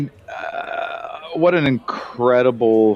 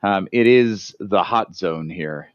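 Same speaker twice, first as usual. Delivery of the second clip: muffled inside a face mask; talking through a hazmat mask; echoey; 2 semitones lower than usual. Real, not acted. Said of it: "if I sound a bit echoey".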